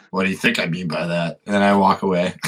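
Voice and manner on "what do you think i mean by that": low, cold retort; mean, dismissive comeback before walking off; being mean. Acted. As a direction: throw the question back nastily. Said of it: "This is being really mean".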